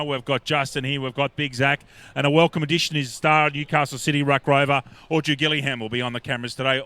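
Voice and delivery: energetic broadcaster shout-out; excited. Real, not acted. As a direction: hype up the camera crew. Excited welcome over crowd.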